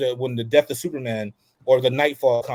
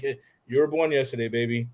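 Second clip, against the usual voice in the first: teasing dad; 6 dB louder than usual. Retold or imitated.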